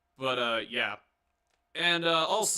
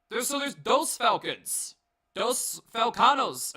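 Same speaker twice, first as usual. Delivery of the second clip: mock Spanish accent; 7 semitones higher, 4 dB louder, slower than usual. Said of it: "make all the race jokes".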